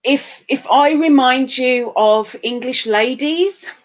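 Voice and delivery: lightly put-on accent, drawling out the end; playful touch of a put-on accent. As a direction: slip into a jokey accent. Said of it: "why did I put on an accent again".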